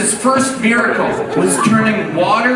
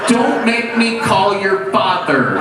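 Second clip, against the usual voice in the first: angry mom; 2 semitones higher, slower than usual. Retold or imitated. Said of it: "She was like".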